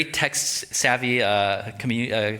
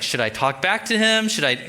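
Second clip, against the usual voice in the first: Abram wondering; 6 semitones higher than usual. Acted. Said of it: "Abram's like".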